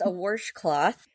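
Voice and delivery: "washcloth" drawn out as "warsh-cloth"; intrusive R. Retold or imitated. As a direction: slowly say "washcloth" with an R before the sh. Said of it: "they would put an R".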